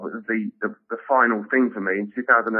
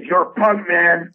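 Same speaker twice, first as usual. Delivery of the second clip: higher, louder mock Paul voice; imitating Paul; 6 semitones higher, 4 dB louder, much slower than usual. Comic quoting Paul Provenza's praise, pitched up and louder. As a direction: play the gushing fan, pitched up. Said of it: "he goes".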